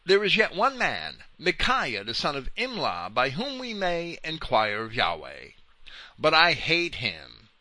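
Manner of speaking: lightly dramatized king's speech, pitch lifted at the start; declaimed scripture quote. A narrator's reading. Preacher quoting King Ahab to Jehoshaphat, emphatic declamation. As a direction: read the king's words out with emphatic stresses.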